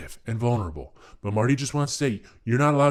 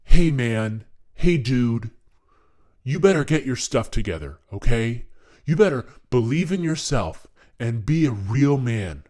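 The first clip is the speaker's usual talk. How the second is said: loud, brash tough-guy talk near the usual pitch; toned-down alpha male pep talk; less-low alpha male voice; 3 dB louder than usual. Pretend. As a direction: bark it like a gym bro, not so deep. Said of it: "maybe not that low".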